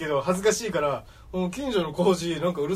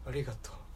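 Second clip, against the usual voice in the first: very hushed, deflated, sad, quiet voice; 7 semitones lower, 15 dB quieter than usual. Retelling the saddest thank-you they ever heard: imitating a sad thank-you. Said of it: "こんなね、悲しいありがとう".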